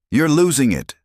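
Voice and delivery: high, loud angry snap; snapping. A narrator's reading. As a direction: bite the words off at him. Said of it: "Another agent snapped".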